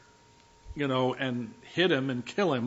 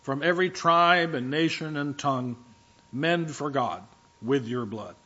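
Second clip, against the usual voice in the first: reverent praise. Retold or imitated. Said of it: "they're crying out to God".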